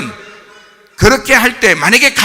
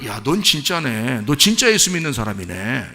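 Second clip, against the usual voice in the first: impressed onlooker; 6 semitones lower, 6 dB quieter than usual. Acted. Companion recognising a true believer, low impressed murmur. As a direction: quietly voice dawning respect. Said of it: "이런 얘기를 들어야지".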